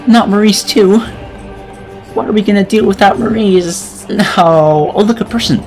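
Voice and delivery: high, hammed-up lament; mock grief. Narrator pretends to mourn Maurice, mock grief.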